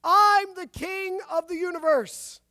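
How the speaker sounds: chest-beating shout, high and slow; loud, slowed boast of a madman; yelling. A narrator's reading. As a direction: yell it from the chair, proud and unhinged. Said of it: "beating his chest and yelling".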